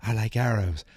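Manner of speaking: slow solemn kung fu voice; martial arts master. Retold or imitated. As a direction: intone it like a sensei. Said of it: "He's like".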